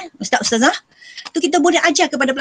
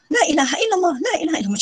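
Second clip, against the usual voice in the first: higher, thin parrot-like recitation of the phrase; talking bird voice; 4 semitones higher, faster than usual. Retold or imitated. Teacher imitates the caged bird repeating the sheikh, higher and birdlike. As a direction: chirp the words like a talking bird. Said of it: "macam tu lah lebih kurang suara dia".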